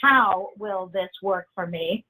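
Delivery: measured, with weight on "how"; stress on how. Shown as a demonstration. Trainer urges writing it down, stressing "how". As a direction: underline "how" with the voice, unhurried. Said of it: "maybe even write the word "how" really big or underline it".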